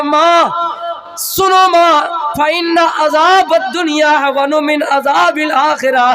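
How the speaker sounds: put-on slow, solemn recitation in a child's voice; child reciting scripture. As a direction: recite it slowly, calmly assured. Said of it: "बेटा कहता".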